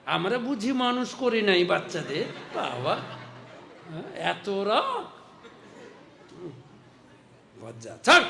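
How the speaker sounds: put-on a grumbling old grandmother telling her off; mother-in-law scolding. The grandmother scolds the mother to let the child go. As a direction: scold like a granny shooing someone away. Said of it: "যদি আপনার শাশুড়ি থাকে".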